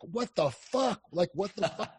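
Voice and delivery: high-pitched, retold disbelief; amused impression of a stunned woman; imitated astonishment. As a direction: mimic her startled outburst, pitched well up. Her baffled outburst, retold again.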